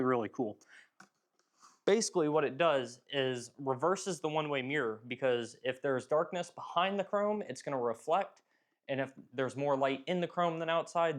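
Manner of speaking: muffled inside a helmet. Real, not acted. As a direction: talk muffled through a visor. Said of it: "sorry, my voice is gonna be muffled".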